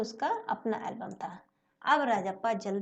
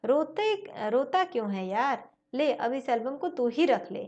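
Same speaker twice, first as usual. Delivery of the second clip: comforting; 2 semitones higher, 4 dB louder than usual. Acted. Comforting crying friend.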